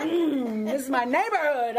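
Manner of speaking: loud, bold mock defiance; fired-up retort. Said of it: "something came up over me, that adrenaline".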